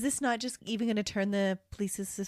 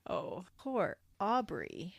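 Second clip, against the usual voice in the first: slow, softened fake pity; sarcastic cooing; mock sympathy; 5 dB quieter, slower than usual. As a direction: pretend to feel sorry, drawn out.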